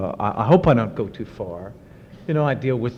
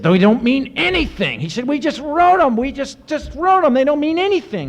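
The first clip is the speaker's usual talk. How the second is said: much higher, heated imitation of a singer; imitated outburst. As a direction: blurt it out in exasperated anguish. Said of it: "he really lost his temper".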